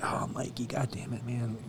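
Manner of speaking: soft, unvoiced, worn-out whisper; a tired guy complaining under his breath; tired groan. Exhausted firefighter grumbling to his buddy about the party, soft whispered groan. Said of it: "I'm like".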